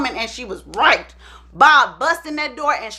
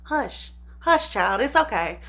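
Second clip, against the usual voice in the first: soft shushing, then lower; hushing; 3 semitones lower, 6 dB quieter, slower than usual. Retold or imitated. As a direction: hush the child gently. Mother hushing her child.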